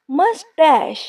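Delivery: मस्टैश said carefully, stress lifted on the second syllable; careful pronunciation. Shown as a demonstration. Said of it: "इसको गलत pronounce नहीं करना". (मस्टैश का साफ़ और सही उच्चारण, "मस-टैश")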